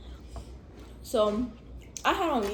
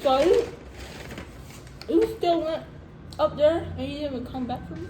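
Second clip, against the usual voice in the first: indignant; 6 semitones higher than usual. Real, not acted. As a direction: call him out, disbelieving. Indignant at brother.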